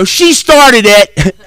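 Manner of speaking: high, very slow whiny protest; childish whine. Retold or imitated. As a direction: whine it like a caught kid.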